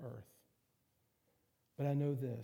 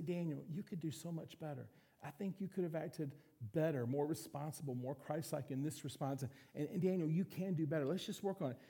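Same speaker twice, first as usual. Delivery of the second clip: gentle correction. Retold or imitated. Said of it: "very beautiful and very warm".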